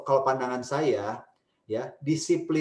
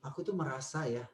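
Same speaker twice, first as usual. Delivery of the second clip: gentle I-statements. Shown as a demonstration. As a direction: open up gently about yourself. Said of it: "itu lebih menolong".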